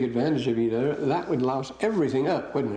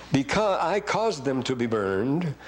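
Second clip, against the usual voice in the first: Because said slowly with the weight on Because; slow, deliberate, lean on Because and caused; stressing because; slower than usual. Shown as a demonstration. Teacher pointing out cause and because, slow and stressed. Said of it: "Cause and because keep going".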